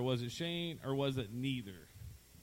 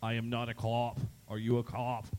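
Boston accent on cop; 2 semitones lower than usual. Shown as a demonstration. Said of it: "in a Boston accent".

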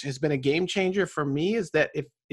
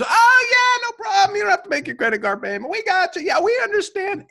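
mock banker; 5 dB louder than usual. Mocking generous bankers.

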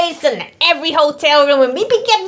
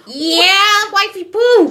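exaggerated cartoon intonation; 4 semitones higher, slower than usual. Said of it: "why are you talking like that".

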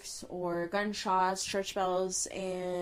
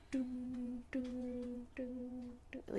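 clock chime imitation; 3 semitones higher, 11 dB quieter than usual. Shown as a demonstration. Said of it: "it goes".

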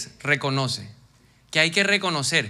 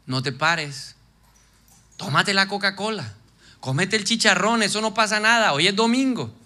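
tempting voice of the flesh; 3 semitones higher than usual. Acted. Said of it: "la voz de la carne y te va a decir".

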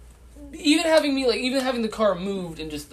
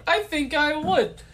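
slowed, drawn-out; 7 semitones higher, slower than usual. Shown as a demonstration. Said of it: "repeated line, different delivery".

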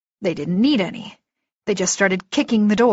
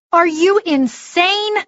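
high, slow, incredulous demand; 10 semitones higher, 4 dB louder, slower than usual. Acted. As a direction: drag out the disbelief, pitched up. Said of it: "Andy demanded".

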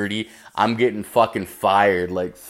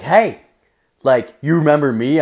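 put-on higher, louder and fast girly voice; mimicking the girl; 4 semitones higher, 5 dB louder than usual. Comic mimicking the second girl, high girly voice. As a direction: chirp it like the eager girl.

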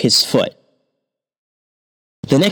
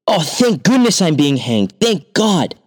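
higher, overjoyed; feigned relief; 6 semitones higher than usual. A narrator's reading. Thief pretending joy at the gallows, higher. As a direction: play it delighted to fool them.

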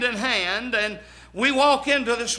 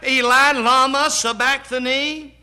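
raised preacher's voice imitating the cry; 4 dB louder than usual. Jesus calling to his Father from the cross, preached cry. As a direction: call it out as an anguished question, moderately loud.

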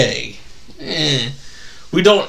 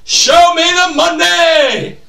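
high, slow movie-quote holler; hammed-up, drawn-out rallying cry; Jerry Maguire; 12 semitones higher, slower than usual. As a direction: shout it so he joins in. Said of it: "Say it with me".

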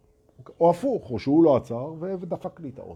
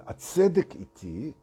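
self-righteous pose; 3 semitones higher, slower than usual. Retold or imitated. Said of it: "הפוזה של".

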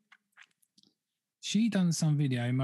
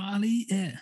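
imitating her; 8 semitones higher than usual. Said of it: "she was like".

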